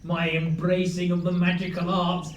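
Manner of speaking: slow grand proclamation; dark lord. Acted. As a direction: boom it like a sorcerer. Player's grand wizard proclamation.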